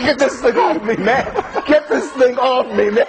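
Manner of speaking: half-laughing yelp; laughing while startled; laughing nervously. Real, not acted. Snake jumps on reporter.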